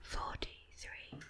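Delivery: slow, very soft whisper right into the ear; hearing-test whisper. Shown as a demonstration. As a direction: breathe the number slowly into one ear. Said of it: "I'm just going to whisper into each ear".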